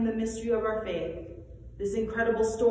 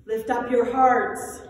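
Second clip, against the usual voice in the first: raised, slow liturgical call; 2 semitones higher, 7 dB louder, slower than usual. Acted. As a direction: call the people to lift their hearts.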